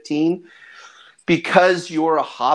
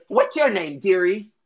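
sweetly nosy granny, pitched up; higher-pitched old hobbit lady; doting old grandmother; 6 semitones higher than usual. Acted. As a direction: ask it like a grandma greeting a stranger. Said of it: "she's looking and she's like".

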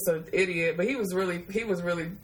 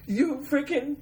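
high, slow whiny wail; mock crying; 7 semitones higher, slower than usual. Crying at her cousin over the cold water, high and whiny. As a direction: wail at the cold shower like a wronged child. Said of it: "I was, like, crying".

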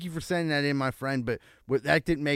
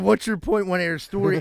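lightly mimicked drunk storyteller, raised voice; a hint of pushy drunk, pitched up; Drunk Jim; 4 semitones higher, 5 dB louder than usual. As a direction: echo the drunk regular's catchphrase, louder. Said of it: "that's what he said".

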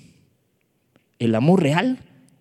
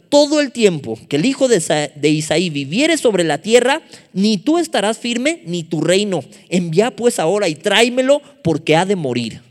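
raised, forceful reading of an angry threat; indignant, high-flown rebuke; 3 semitones higher, 4 dB louder than usual. Acted. Preacher voicing Saúl ordering David's death, forceful indignant declaiming. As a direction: declaim it as an enraged king's order. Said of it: "Estaba bien altisonante".

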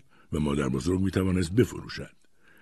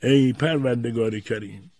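slightly raised, pleading prayer; murmured prayer; 5 semitones higher than usual. A narrator's reading. Grandfather prays in the next room, pleading. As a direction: intone it as an appeal to God. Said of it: "صدای زمزمهٔ پدر بزرگ".

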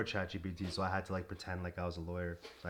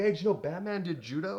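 mock announcement; 9 semitones higher, 6 dB louder than usual. Coach announcing to the gym.

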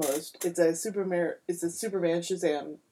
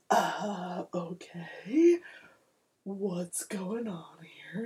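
awkward Superman; 3 dB quieter, much slower than usual. Retold or imitated. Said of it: "And he's like".

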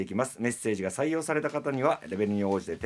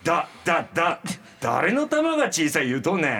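sputtering, higher-pitched indignation; stung stammering; 4 semitones higher, 3 dB louder than usual. Acted. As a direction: stammer the first sound, then snap back. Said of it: "おちょくられてるのを出すっていう演技".

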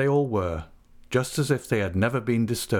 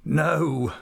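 mildly amused, higher-pitched; laughing; 8 semitones higher than usual. A narrator's reading. Peggotty conceding the tease, mildly amused. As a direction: agree with a touch of laughter. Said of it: "laughed Mister Peggotty".

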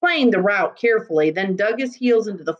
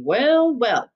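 marvelling; 5 semitones higher than usual. Acted. Constable marvels.

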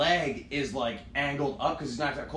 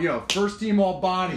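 loud and higher, hyped; hyped-up yell; 4 semitones higher, 6 dB louder than usual. Retold or imitated. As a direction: shout it out like a fan. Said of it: "'cause I'm going".

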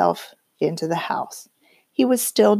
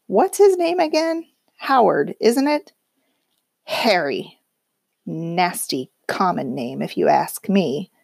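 sneering wife voice. Acted. Wife sneering at nephew's name.

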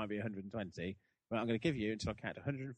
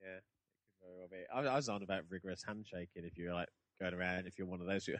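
usual speaking voice

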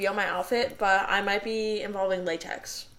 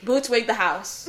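slow catchphrase, laughing through it; savoring the catchphrase slowly; slow drawn-out catchphrase; 3 dB louder, slower than usual. Pretend. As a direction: stretch each word out with a laugh. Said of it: "catchphrase said slowly".

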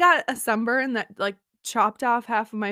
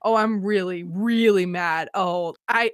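slow, low build on "really mad"; understated inner fuming; retold simmering anger; 3 semitones lower than usual. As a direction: drag out the mounting anger, held in. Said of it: "when I get angry".

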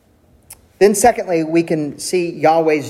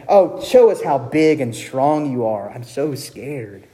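mocking. God pretends to fear the powerless idols, lightly mocking. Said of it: "God is literally mocking them".

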